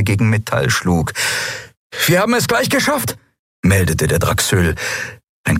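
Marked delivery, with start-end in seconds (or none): 2.1-3.2 high, strange reptile voice; lizard creature voice. Acted. Lizard officer voiced in story.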